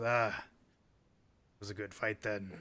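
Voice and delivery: the orc chief approving the fight, slowly; orc chieftain. Acted. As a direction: draw it out like a pleased warlord. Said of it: "the orc looks down on you and says".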